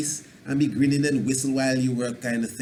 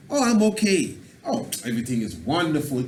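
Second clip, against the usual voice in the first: cheerful positive talk. Shown as a demonstration. Teacher demonstrates speaking properly with good vibration. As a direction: sound upbeat and upright. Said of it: "Even if you're acting".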